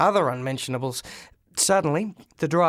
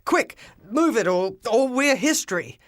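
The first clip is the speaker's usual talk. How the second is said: high panicked scream; high frantic scream to flee the rubbish; 6 semitones higher than usual. Acted. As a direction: shriek for the driver to go. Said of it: "I screamed".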